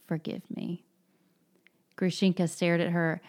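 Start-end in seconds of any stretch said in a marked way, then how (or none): 0.1-0.8 soft moan. Acted. Katya pleading with Grushenka, soft near-whisper. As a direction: softly read plea, almost a whisper. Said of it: "moaned softly, almost in a whisper".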